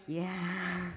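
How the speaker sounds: sheepish laughing admission; laughing yeah. Retold or imitated. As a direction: caught out, laugh it out. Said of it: "And I was like".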